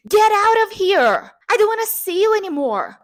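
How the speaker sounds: acted angry shout, high and loud; imaginary English fight. Fighting with herself at the mirror, theatrical angry shout. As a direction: throw them out in mock fury. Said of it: "Brigar em inglês é tão satisfatório".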